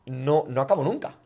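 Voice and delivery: nunca ends on a rising tune, left hanging; ending on a rise. Shown as a demonstration. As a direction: let nunca climb at the end instead of closing. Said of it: "si yo siempre acabo arriba".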